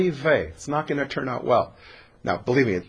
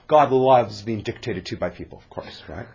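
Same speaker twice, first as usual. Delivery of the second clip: sarcastic whisper; 4 semitones lower than usual. Real, not acted. Sarcastic aside.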